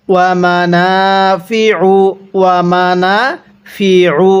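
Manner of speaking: "মানাফিউ" slowly, with the ain pressed hard in the throat. Shown as a demonstration. Teacher shows a pressed ain so students copy. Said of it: "আইনটা চাপ দিয়ে পড়ব".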